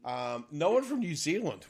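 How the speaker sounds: usual speaking voice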